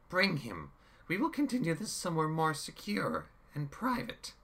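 high, loud order to the troops; commanding villain. A narrator's reading. Chaos orders troops, high and loud. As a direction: bark it at the soldiers. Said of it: "then to his troops".

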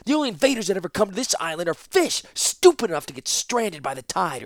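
loud, high, fast furious tirade; roaring back. Acted. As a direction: roar it back at the master. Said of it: "roared right back at the man".

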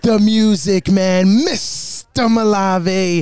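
slow, drawn-out ring announcer delivery; showy, measured introduction of the tag team; ring announcer intro. Acted. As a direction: stretch out each name like a wrestling emcee. Opens the show as announcer.

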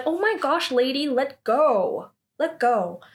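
high-starting mock exasperation; annoyed protest. Grabbed by the collar, mock annoyed protest. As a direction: act out an irritated objection.

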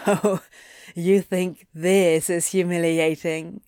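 short chuckle, then teasing question; chuckling. A narrator's reading. Demon mocks his counterpart's embarrassment, chuckling. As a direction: tease him with a light chuckle. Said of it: "Anthony chuckled".

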